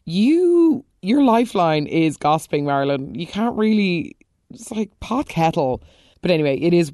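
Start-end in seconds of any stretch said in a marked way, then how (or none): 0.1-3.1 indignant jab. Real, not acted. Scolding a character.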